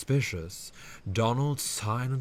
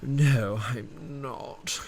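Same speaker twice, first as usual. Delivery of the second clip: sighed; 2 semitones higher, much slower than usual. Acted. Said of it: "Dudley sighed".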